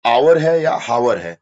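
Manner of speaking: आवर with no h, then हावर with a pushed h; silent h contrast. Shown as a demonstration. Teacher contrasts the silent h with a voiced h. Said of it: "ऑनेस्ट है या हॉनेस्ट है".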